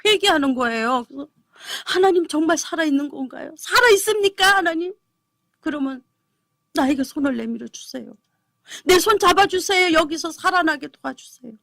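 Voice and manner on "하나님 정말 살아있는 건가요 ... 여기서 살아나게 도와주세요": raised, pleading prayer, reaching for God's hand; desperate plea. Retold or imitated. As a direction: beg to be pulled up and saved. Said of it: "막 처절하게 옵니다".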